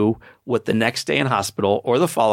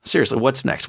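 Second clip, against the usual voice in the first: eager victor; 4 semitones higher, slower than usual. Retold or imitated. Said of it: "The next question is".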